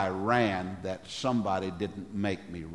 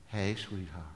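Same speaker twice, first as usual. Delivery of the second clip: tender greeting; 2 semitones lower, 7 dB quieter than usual. Pretend. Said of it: "I'm gonna change my tone".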